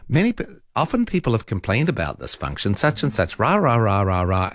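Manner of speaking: mild mock smug American voice. Host mimicking the phone assistant talking back, smug American. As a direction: lightly imitate a smug American AI. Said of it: "it's a smug American voice going".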